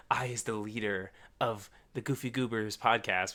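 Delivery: lightly voiced dopey rival; a hint of a dim-witted podcaster reading his intro; mild mock dumb-guy voice; mocking goofy voice. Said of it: "did you really say it like that".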